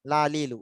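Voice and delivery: "লা, লি, লু" with the tongue against teeth and gum. Shown as a demonstration. Teacher showing where lam is made, tongue-to-gum L. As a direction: keep the tongue touching the gum on "লা, লি, লু". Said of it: "দাঁতের সাথে মাড়িটাতে লাগে".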